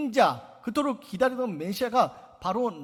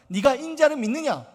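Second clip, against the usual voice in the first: voicing Jesus; 4 semitones higher, 7 dB louder than usual. Preacher voices Jesus' question loudly.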